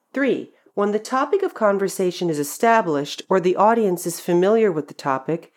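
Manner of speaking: ordinary talk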